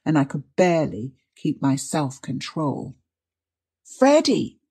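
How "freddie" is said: high, loud, pleading call; tremulous cry. A narrator's reading. Distracted mother calling through the wood, tremulous cry. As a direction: call out in terror and coaxing softness. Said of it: "a tremulous cry, so dreadfully pathetic".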